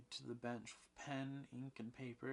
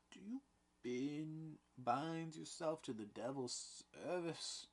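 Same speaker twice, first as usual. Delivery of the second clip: demanding; 7 semitones higher than usual. A narrator's reading. Danforth demanding confession.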